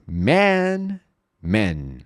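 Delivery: compare man twice; open man. Shown as a demonstration. Teacher contrasting vowels. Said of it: "Então veja a diferença".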